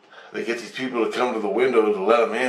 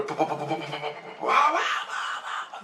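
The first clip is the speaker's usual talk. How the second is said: repeated bah sounds rising high; imitated pounding; 6 semitones higher, 6 dB quieter than usual. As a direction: imitate frantic pounding with the mouth. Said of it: "They're pounding".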